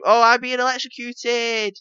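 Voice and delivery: high, loud, drawn-out mock cry; mock scream. Player mimicking a shocked enemy for the co-host, mock scream. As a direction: wail it high and slow like a hammed-up victim. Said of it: "You wouldn't just scream".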